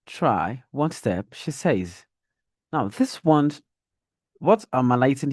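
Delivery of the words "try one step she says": "step" drawn out and lifted slowly; slow, rising "Try one step" that leaves the sentence open; dragged rising tone. Shown as a demonstration. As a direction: drag "step" upward to show more is coming. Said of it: "I used the rising tone, more or less like I'm dragging the last word".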